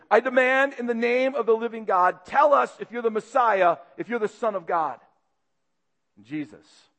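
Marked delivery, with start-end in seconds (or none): 0.1-5.0 a firm, mildly raised demand; furious demand. Acted. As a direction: demand the truth in God's name. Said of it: "Caiaphas, furious, says to him".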